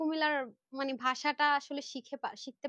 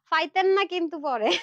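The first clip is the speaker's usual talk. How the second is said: Comilla-style পাইতেন না, louder; Comilla dialect; 5 dB louder than usual. Shown as a demonstration. Seller trying her hometown phrase on viewers, Comilla dialect. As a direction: try the Comilla dialect line playfully. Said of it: "কুমিল্লায় কি বলে".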